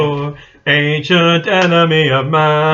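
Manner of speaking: slow dramatic movie line; dramatic quote. Shown as a demonstration. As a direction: intone it like a trailer. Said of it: "if you know what that's from".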